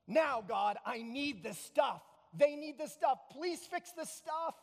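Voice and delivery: emphatic mock petition, drawn out at the end; mock demanding prayer. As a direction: press God for the fix. Acts out demanding request prayer.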